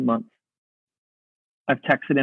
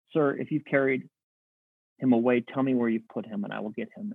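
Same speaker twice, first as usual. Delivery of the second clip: soft, lower voice sinking almost to nothing; hushed plea; 3 semitones lower, 8 dB quieter than usual. Acted. Grieving Mary asks the supposed gardener for the body, hushed. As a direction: quietly voice a grieving woman's request.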